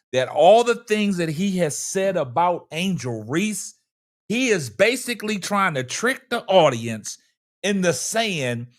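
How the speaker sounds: country Wayne voice. Acted. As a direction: let each phrase sizzle, spaced out with long pauses. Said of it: "in my country Wayne voice".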